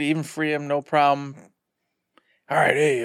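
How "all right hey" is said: hushed unvoiced whisper; freed druid whispering to the player. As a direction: say it under your breath, secretive. Druid quietly speaking to player.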